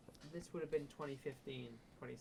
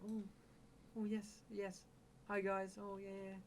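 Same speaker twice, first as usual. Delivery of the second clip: higher, overly sweet sellout voice; mock fake YouTuber; 8 semitones higher, slower than usual. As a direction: ham up a gushing influencer. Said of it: "I was like".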